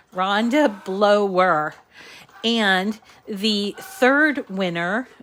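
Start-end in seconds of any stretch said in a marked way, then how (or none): 0.1-1.7 "Rhonda Blower" slowly and carefully; careful pronunciation. Real, not acted. Host re-announcing the winner after apologizing, slow careful "Rhonda Blower". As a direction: draw out "Rhonda Blower", each name distinct. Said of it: "that's my New England accent".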